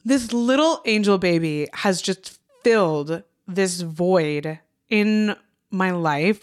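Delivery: close to tears. Real, not acted. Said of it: "I'm gonna cry".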